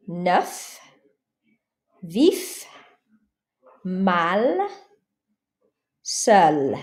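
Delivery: each word alone, the final C, R, F, L clearly sounded; final consonants sounded. Shown as a demonstration. Teacher modeling French words for students to repeat. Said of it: "For example".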